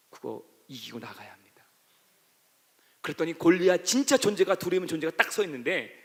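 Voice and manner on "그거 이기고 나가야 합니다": hushed, urgent whisper; a quiet whispered charge to the church. Real, not acted. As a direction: breathe it to them softly. Preacher drops to a whisper.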